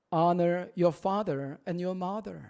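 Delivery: very slow, word by word in English; teaching the verse slowly in English; slow English recital. Shown as a demonstration. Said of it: "너의 아버지와 어머니를 honor".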